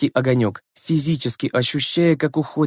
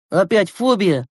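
annoyed; 5 semitones higher, slower than usual. Acted. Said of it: "с досадой спросил Глеб".

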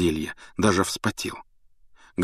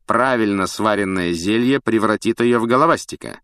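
gloating teacher; 2 semitones higher, 3 dB louder than usual. Acted. Snape mocks Neville.

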